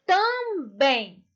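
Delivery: TAMBÉM split in two, both syllables drawn out; stressed final syllable. Shown as a demonstration. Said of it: "sílaba mais forte".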